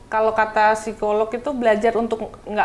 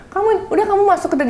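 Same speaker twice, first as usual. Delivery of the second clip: higher and fast, brisk firm command; firm order; 9 semitones higher, faster than usual. Retold or imitated. Mother telling son to go in, brisk firm order. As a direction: shoo him inside without fuss. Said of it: "Jadi kalau aku bilang".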